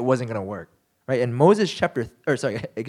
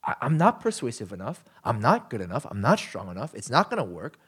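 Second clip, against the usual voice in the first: low defeated murmur; 6 semitones lower, 3 dB quieter than usual. Retold or imitated. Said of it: "it feels like".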